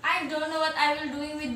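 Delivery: loud frustrated cry of oh damn; frustrated outburst. Acted. Student stuck on her lesson, loud frustrated outburst. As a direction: blurt it out, fed up with the book.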